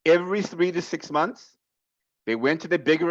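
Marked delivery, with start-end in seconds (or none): 0.1-1.6 slower, spaced-out delivery for emphasis; deliberately slow. Real, not acted. Sales coach restating a key point to reps, slowly. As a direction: spell it out slowly so it lands. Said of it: "let me say this slowly".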